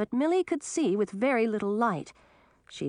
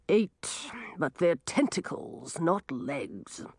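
quarrelsome; slower than usual. Acted. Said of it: "in a quarrelsome voice".

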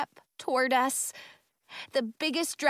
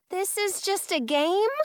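higher-pitched, disbelieving question; incredulous; 8 semitones higher than usual. A narrator's reading. Girl learns the danger was play, incredulous. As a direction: ask it in disbelief.

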